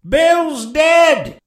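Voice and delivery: high, loud call to those outside; shouting from the house. A narrator's reading. Pirate inside the house to those outside, high shout. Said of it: "a voice shouting from the house".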